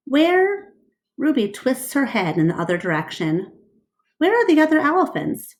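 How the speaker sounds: put-on high, quick, curious child voice; a little calf looking around anxiously; high eager elephant calf asking fast; eager baby elephant.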